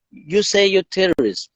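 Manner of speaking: high-pitched retold disbelief; incredulous question. Persian woman checks what the cyclist said, incredulous. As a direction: question him as if you can't believe it.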